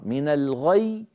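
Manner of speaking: من الغي slow, final ي pressed and doubled; stop on shadda. Shown as a demonstration. Teacher showing the stop on a doubled letter. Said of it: "تسكن الياء التي كانت مكسورة".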